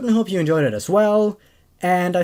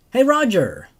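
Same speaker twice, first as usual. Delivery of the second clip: calling out; 3 semitones higher than usual. Acted. Calling out across pharmacy.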